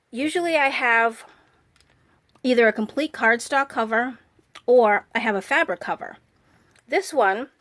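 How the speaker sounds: talking around a cough drop; mouth full. Real, not acted. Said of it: "I have a cough drop in my mouth right now".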